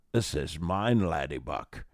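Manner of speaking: lightly voiced Scottish film-star impression; a hint of a possessive Scottish brogue; Sean Connery. Dog claiming her tennis ball, in a light mock Connery voice. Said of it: "she turns into Sean Connery".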